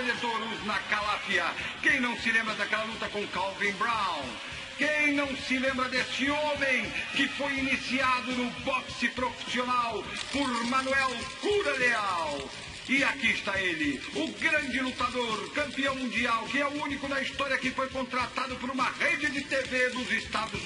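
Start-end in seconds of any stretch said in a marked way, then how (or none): 4.8-15.9 hyped announcer. Acted. Announcer hyping champion.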